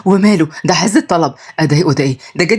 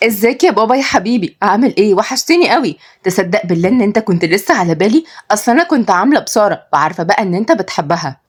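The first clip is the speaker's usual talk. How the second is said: sweet daughter voice; 2 semitones higher than usual. Acted. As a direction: greet dad lovingly, pitched up. Somaya greets her father.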